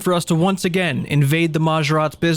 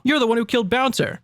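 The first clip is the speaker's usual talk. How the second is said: accusing woman voice; 8 semitones higher than usual. Acted. Voicing the young lady.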